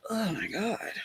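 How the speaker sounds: under-the-breath whisper; whispered oh my God. Real, not acted. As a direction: breathe it out unvoiced in dismay. Finding purse, eye hurting.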